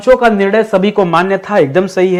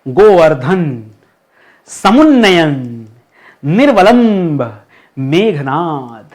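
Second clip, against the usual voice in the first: slow careful reading; 2 semitones lower, much slower than usual. Shown as a demonstration. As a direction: read each word out slowly, one by one. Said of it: "पढ़ के बताइए". (हर शब्द धीरे-धीरे पढ़कर सुनाना)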